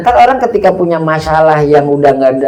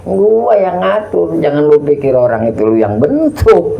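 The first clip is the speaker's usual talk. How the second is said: voice of God; 2 semitones higher than usual. Retold or imitated. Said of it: "Tuh, lu tahu kan?".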